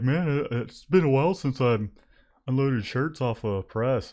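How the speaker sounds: lightly voiced buddy impression; a hint of Panda's voice. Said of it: "That's a terrible Panda impression".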